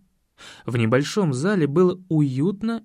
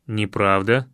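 sharp interruption; 7 semitones lower than usual. A narrator's reading. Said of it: "резко перебил я".

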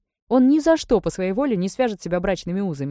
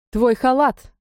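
higher and louder call after her; 6 semitones higher, 7 dB louder, much slower than usual. A narrator's reading. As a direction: call her back before she leaves. Calling the maid back.

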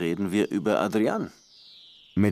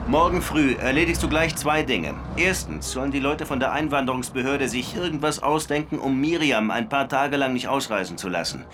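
urgent phone call; 6 semitones higher than usual. Acted. Das ist meine einzige Münze.

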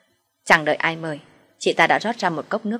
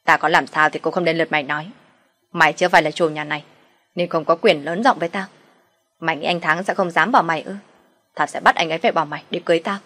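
menacing, pressed words through the teeth; a rival's cold, grinding threat; gritting out the words; 4 dB louder than usual. Acted. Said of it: "gằn giọng".

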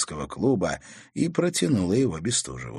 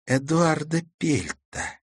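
slowly; 8 semitones higher, slower than usual. Acted. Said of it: "медленно начала она".

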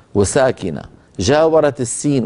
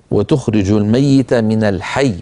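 Quran recitation; 3 semitones lower than usual. Shown as a demonstration. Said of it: "مر معنا في هذه الصفحة بعض الأشياء ننبه عليها".

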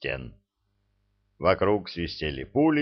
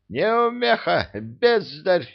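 scornful insults; 10 semitones higher, 3 dB louder, slower than usual. A narrator's reading. Insulting the failing spellcaster.

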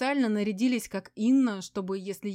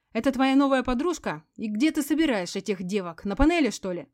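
loud, higher sneering yell; 5 semitones higher, 9 dB louder than usual. A narrator's reading. Veronika mocks Sergey's new girlfriend, loud sneer.

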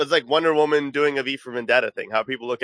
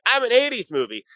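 mock announcer; 11 semitones higher than usual. Mocking a movie's announcement.

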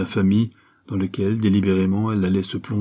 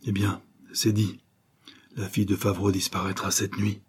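dejected murmur; 4 dB quieter than usual. Acted. Morales yielding to Diana, a dejected murmur. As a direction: give in, crushed. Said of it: "il murmura d'un air abattu".

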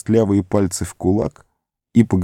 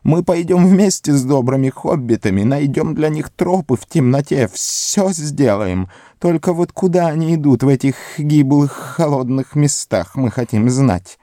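high, wheedling creature voice; fawning, sly and high-pitched; Gollum voice; 7 semitones higher than usual. A narrator's reading. Gollum speaking to hobbits.

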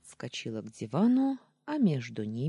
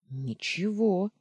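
high, drawn-out meek denial; timid babble; 6 semitones higher, 4 dB louder, slower than usual. A narrator's reading. Heroine looking up hunted at Daniil, timid babble. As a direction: let the word out timidly. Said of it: "пролепетала я".

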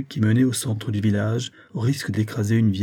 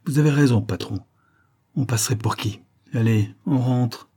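disgusted tone; 3 semitones higher than usual. Acted. Volpi to his boss after losing the suspect, disgusted. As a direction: drag the last words out in disgust. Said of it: "fit Volpi d'un ton dégoûté".

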